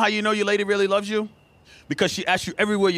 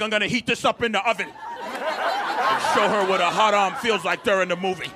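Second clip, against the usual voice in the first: scheming mock voice. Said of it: "I'm not in the kitchen like".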